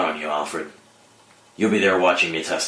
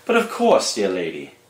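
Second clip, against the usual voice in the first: violinist voice. Acted. Violinist answering Talia's request, gallant put-on musician voice. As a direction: answer the lady with courtly flourish. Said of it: "Would you happen to know a good song".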